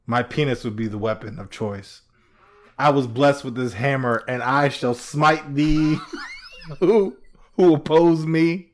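lightly voiced grandiose warrior; mock biblical prophet. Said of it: "I was like".

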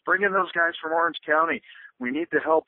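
lightly voiced lobbying brothers, high; high mock voice. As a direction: squeak it out as the eager brothers. Voicing the Skotak brothers.

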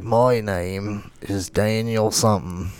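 slow, lightly voiced old man; old man spirit. Quoting the spirit possessing a little girl, lightly voiced old man. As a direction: imitate a movie ghost, drawn out. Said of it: "there's, like, an old man".

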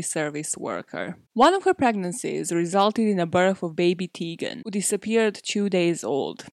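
true-crime podcast intro read; measured storyteller reading out the headline facts; scripted narration. Acted. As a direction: read it as a prepared, dramatic case summary.

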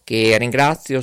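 ordinary talk, nothing marked

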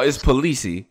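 Polisi ending in a clear "see"; corrected name. Shown as a demonstration. Co-host correcting another on the surname, Polisi said puh-LEE-see. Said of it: "Not Police".

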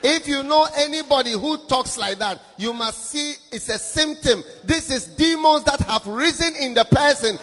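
forceful, loud sermon warning; loud preacher warning the congregation; loud preaching. Real, not acted. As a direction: drive the warning home.

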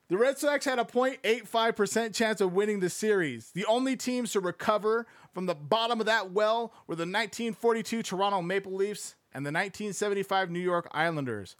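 steady read-aloud narration; book narration. Acted. Streamer reading the baseball book aloud to chat. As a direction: read it like an audiobook passage.

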